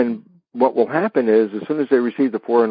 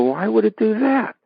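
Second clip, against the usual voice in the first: puzzled listener; 11 semitones higher than usual. Retold or imitated. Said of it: "You go".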